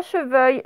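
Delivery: "cheveuil", the word chevreuil without its R; R left out. Shown as a demonstration. Teacher showing pupils the forgotten letter, "cheveuil" without R. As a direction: drop the R to give "cheveuil". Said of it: "il ne fallait pas oublier le R".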